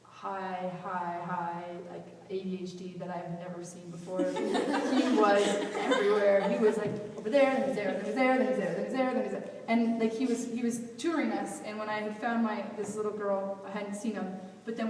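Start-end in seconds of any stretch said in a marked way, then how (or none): 4.2-9.5 laughing, louder and quicker. Real, not acted. Describing the hyperactive boy to listeners, laughing. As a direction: laugh through the rush of words.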